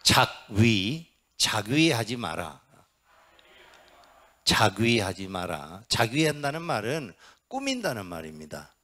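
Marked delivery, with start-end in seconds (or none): 0.0-5.8 slow recitation. Shown as a demonstration. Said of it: "따라서 하세요".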